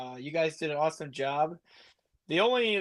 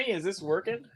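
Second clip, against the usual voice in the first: muffled, hollow mic sound; inside a fishbowl; 5 semitones higher than usual. Real, not acted. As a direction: voice boxed in a fishbowl. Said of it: "do I sound like I'm in a fishbowl?".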